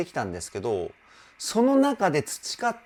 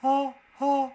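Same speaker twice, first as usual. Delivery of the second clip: higher breathy sighs, throat wide open; open-throat breaths; 11 semitones higher than usual. Shown as a demonstration. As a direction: sigh out with the throat opened. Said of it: "喉を広げるんですよね".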